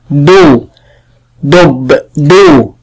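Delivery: "دو" held with rounded lips, then "دب"; rounded u vowel. Shown as a demonstration. Teacher shows damma on the letter dal, lip-rounded "دو". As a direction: round the lips firmly on each "دو". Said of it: "ضمت فمي".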